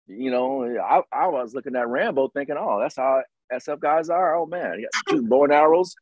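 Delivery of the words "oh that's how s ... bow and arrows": put-on higher, marveling naive kid; wide-eyed awe. Younger self marveling at Rambo's special forces gear, wide-eyed awe. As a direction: voice a mildly awed, curious rookie.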